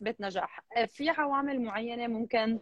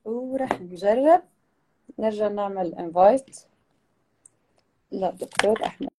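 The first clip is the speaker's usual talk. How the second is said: glitchy robotic call; 2 semitones lower than usual. Real, not acted. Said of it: "مش كتير واضح عندي".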